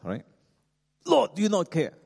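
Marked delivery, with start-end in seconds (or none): 1.1-1.9 high-pitched, indignant cry of protest; raised voice. Acted. Martha protesting to the Lord, voice raised. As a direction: raise your voice in complaint. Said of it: "Martha must be raising her voice".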